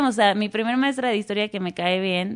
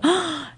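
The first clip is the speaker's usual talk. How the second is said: gasp; 7 semitones higher than usual. Retold or imitated. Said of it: "yo chillando".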